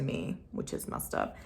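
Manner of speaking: whispered aside. Real, not acted. Realizing her ex copied his mom, whispered. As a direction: breathe it out under her breath.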